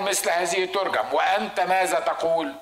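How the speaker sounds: slow, weighty reading of the challenge; slow formal quote of Moses' law; slow quoted law. Retold or imitated. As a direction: deliver it slowly, deliberately. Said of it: "موسى قال".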